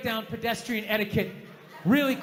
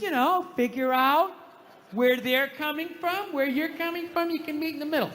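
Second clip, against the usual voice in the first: mock self-help earnestness; 5 semitones higher than usual. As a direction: stretch the advice out, pitched up. Mocking empathy advice he read.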